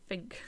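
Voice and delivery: "Think" said with an f, as "fink"; imitated "fink". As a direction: front the th in "Think" to an f. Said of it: "say things like".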